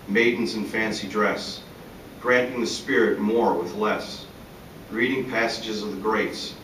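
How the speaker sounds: measured recital of short images, each set apart; poem reading. Acted. Poet reading his longing for a simpler time, measured recital. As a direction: recite each fragment with a pause after it. Reads own poem aloud.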